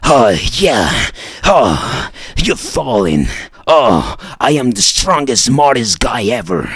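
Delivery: a touch of smug mockery; a hint of smug troll. Continues mocking the troll.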